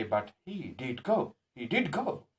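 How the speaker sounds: slow, emphatic "did" in "he did go"; stress on DID. Shown as a demonstration. Teacher laying emphasis on his going, stressed "did". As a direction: insist on it by weighting "did". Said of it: "but to lay the emph".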